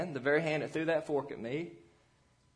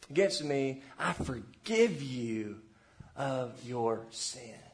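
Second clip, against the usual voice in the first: tender parent talk. Shown as a demonstration. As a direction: ease the child toward forgiveness slowly. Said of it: "You say".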